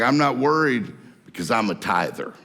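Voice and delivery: lightly played tither lounging under the palm tree; calm unworried. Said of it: "Why are you not worried?".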